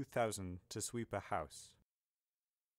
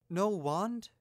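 high, loud incredulous question; acted astonishment, pitched well up; shocked gasp; 9 semitones higher, 7 dB louder than usual. A narrator's reading. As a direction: blurt it out aghast. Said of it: "McGonagall gasped".

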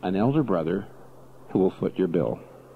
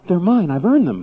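emphatic claim; 7 semitones higher, 5 dB louder than usual. Acted. Sermon climax, brother's claim.

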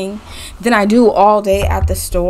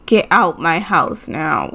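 lower, slow mock order; mock stern; 5 semitones lower, slower than usual. Player kicking a visitor out, in a low mock-stern order. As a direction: drop the voice and order them out slowly.

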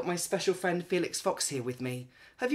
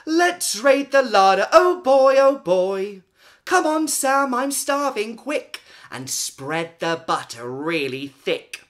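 high, loud eager squeals; starving sister urging Sam to hurry, excited; greedy excitement; 7 semitones higher, 11 dB louder than usual. Acted. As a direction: bounce with hungry glee. Greedy sister rushing for food.

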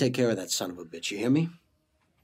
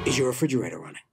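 prank caller voice; 3 semitones higher, 5 dB louder, much faster than usual. Retold or imitated. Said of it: "ask him one question".

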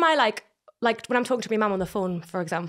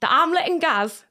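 slow, higher-pitched Geordie; Geordie model; 5 semitones higher, slower than usual. Shown as a demonstration. Coaching the accent in short chunks, slow Geordie.

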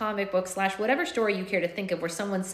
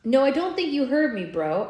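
good-natured; 7 semitones higher, 5 dB louder than usual. A narrator's reading. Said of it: "keeping my tone good-natured".

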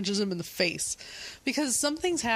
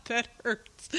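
pained laughing; 3 semitones higher than usual. Real, not acted. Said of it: "it hurts when I laugh".

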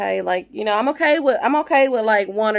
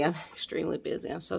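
laughing; 11 dB quieter, much faster than usual. Real, not acted. Laughs at own busyness.

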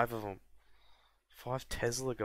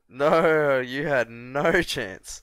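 laughing disbelief; 3 semitones higher, 11 dB louder, much slower than usual. Real, not acted. Units crushed, laughing disbelief.

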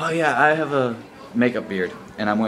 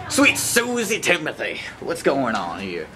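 mock exclamation. Joking with Sal about clean swearing, mock scolding. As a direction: play up a silly scandalized outburst. Acting out joke substitute swearing.

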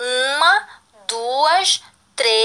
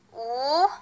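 syllable by syllable; faster than usual. Shown as a demonstration. Teacher leads pupils through reading each piece, syllable by syllable. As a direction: say "Ursinho" piece by piece, pausing between syllables. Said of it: "bem devagar cada pedaço dessa palavra".

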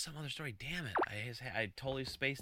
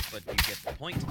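ordinary talk

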